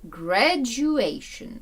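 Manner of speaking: Graduation very slowly, with a long AY in A; drawn-out Graduation, stressed on A; A sound shown. Shown as a demonstration. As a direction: stretch Graduation out to show the AY vowel. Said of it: "Тут у нас вже з'являється A".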